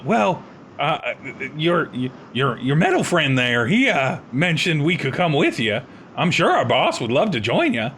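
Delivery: lightly voiced drawling lizard man; a hint of a rough outlaw lizard.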